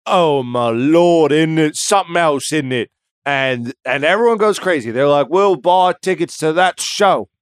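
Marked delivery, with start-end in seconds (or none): 0.1-2.9 mock-awed crowd voice; awed gushing. Crowd gushing over Houdini. 5.3-7.3 slowed, eager mock crowd voice; hammed-up eager fan. Crowd voiced buying tickets.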